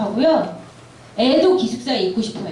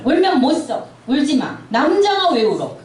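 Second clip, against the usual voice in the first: grandmother scolding; 3 semitones higher than usual. Retold or imitated. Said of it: "저희 할머니가 하는 걸 많이 들었거든요".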